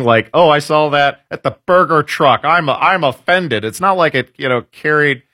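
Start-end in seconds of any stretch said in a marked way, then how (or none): 0.3-3.6 lightly mocked offended complainer; a hint of a higher-pitched, scandalized Karen; pearl-clutching Karen. Host mocking a food truck complainer, pearl-clutching Karen. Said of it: "What kind of pearl-clutching Karen".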